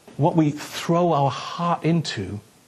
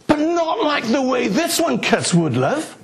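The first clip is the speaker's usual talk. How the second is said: higher, whiny pleading to his wife; mock pleading; 9 semitones higher than usual. Husband pleading with his wife for the saw, mock whine. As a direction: beg for the saw.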